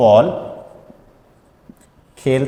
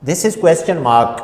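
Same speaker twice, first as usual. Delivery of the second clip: slow teaching demo; 4 semitones higher, much slower than usual. Shown as a demonstration. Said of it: "pronunciation का एक rule".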